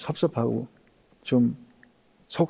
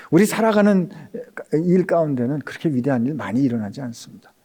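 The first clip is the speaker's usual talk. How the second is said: usual speaking voice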